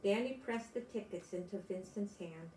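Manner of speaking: gentle storybook reading; picture book read aloud to kids; story narration. A narrator's reading. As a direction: read it to small children, unhurried.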